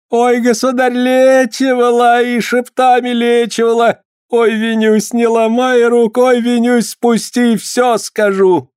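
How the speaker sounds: high wailing confession, slowing at the end; howling in pain. Acted. Tortured healer confessing to the boyar, howling. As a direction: cry out begging, voice strained high. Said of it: "взревела не своим голосом".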